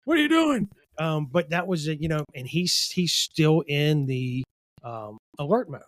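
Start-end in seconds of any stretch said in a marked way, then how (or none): 0.0-0.7 high, loud mock panicked shriek, repeated; mocking the coworker. Laughing at a coworker over lunch, high mock shriek. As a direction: tease a friend by parroting his freak-out. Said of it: "She's all like".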